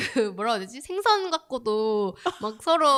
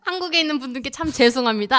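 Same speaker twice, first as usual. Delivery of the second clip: put-on light Korean American accent, apologetic; 4 semitones higher, 5 dB louder than usual. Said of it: "그 교포 말투로".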